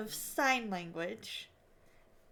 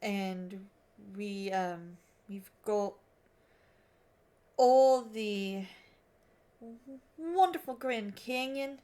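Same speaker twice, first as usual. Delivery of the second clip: put-on halting amateur Aussie accent; Australian accent attempt; slower than usual. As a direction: work through it in a tentative Australian accent. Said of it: "five minutes of attempting the Australian accent".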